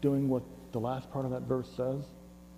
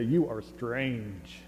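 "You are strange" said very slowly; slow demo line; much slower than usual. Shown as a demonstration. Preacher leading congregation to tell neighbor, very slow. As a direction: model it slowly for the room. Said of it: "look to your neighbor and say".

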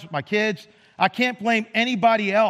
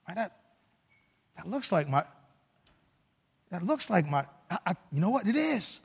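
hushed disbelief; 8 dB quieter than usual. Acted. Father spots returning son.

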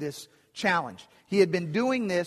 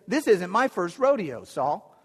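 casually cocky, a bit higher; confident boy; 3 semitones higher than usual. Retold or imitated. Young David assuring Saul he can handle it, breezy and cocky. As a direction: toss it off like a confident kid. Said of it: "David says".

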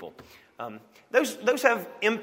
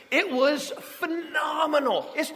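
raving; 11 semitones higher, slower than usual. Real, not acted. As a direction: savour each word in delight. Raving about the borscht.

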